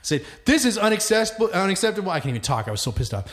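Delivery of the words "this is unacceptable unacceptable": retold angry rant. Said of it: "I was cussing up a storm".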